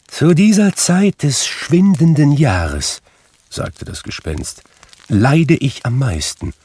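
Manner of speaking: high, loud, grave spirit pronouncing judgment; solemn ghost. A narrator's reading. Marley's ghost lectures Scrooge, grave and doomed. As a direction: speak as a doomed spirit delivering a sentence.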